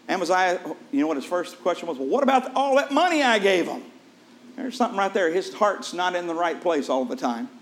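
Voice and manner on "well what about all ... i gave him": greedy king. Retold or imitated. King worried about his money.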